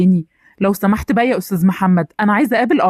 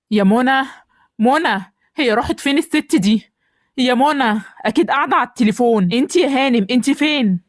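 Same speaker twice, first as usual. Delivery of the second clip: calling through the house for a wife, slightly raised pitch; mildly annoyed call to someone out of sight; irritated calling out; 3 semitones higher than usual. Acted. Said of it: "بتزعق كده ليه".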